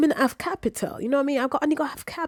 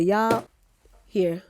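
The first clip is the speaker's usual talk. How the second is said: louder, indignant telling-off; retold outburst; 2 semitones higher, 6 dB louder than usual. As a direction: let them have it, loud and fed up.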